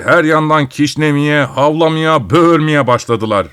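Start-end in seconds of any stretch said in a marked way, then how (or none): none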